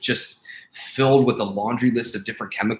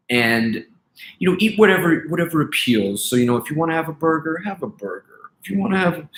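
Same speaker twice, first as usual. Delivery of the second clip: lightly voiced dismissive doctor; doctor brushing off healthy eating, in a light mock voice; 3 semitones higher than usual. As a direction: mimic a careless doctor, half-mocking. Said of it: "their doctors were like".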